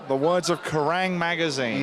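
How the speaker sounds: slow, lightly boomed announcer; a hint of a radio trailer read; mock announcer. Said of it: "Not my words, Lynn".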